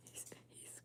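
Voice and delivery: really crying, words broken by sobs. Real, not acted. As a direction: choke the words out through tears. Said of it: "he can hear me crying".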